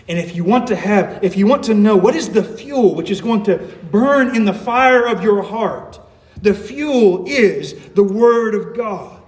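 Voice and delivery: emphatic pulpit build-up; impassioned preaching. Real, not acted. Preacher telling the congregation what fuels the heart, impassioned. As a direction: drive the point home with fervour.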